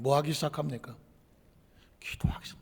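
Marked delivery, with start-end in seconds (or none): 2.0-2.6 sudden hushed whisper. Acted. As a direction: drop to a breathy whisper. Sudden whisper mid-sermon.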